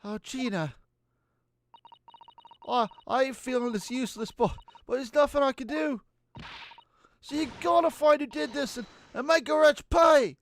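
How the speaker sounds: high, pleading Cockney voice; bad English accent. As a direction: beg desperately in a hammed-up London accent. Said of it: "No more bad English accents".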